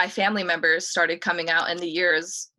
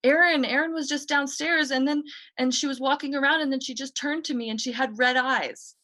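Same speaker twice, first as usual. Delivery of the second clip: put-on scared child; 7 semitones higher than usual. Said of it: "And he was like".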